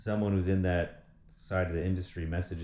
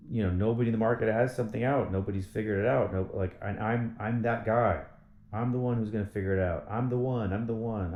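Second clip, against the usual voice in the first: fired up; 3 semitones higher, 3 dB louder than usual. Real, not acted. Hyping himself up.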